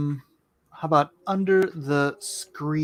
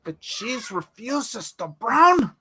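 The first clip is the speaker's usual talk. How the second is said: theatrical slow voice; 7 semitones higher, 4 dB louder, slower than usual. Pretend. Repeats phrase, slow and theatrical.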